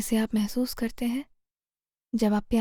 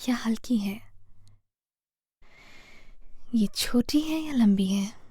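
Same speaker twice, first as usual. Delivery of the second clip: guided meditation. Real, not acted. Meditation guide leading listeners through posture and breath to heal fear, calm guided meditation. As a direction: guide them gently, phrase by phrase, leaving space to breathe.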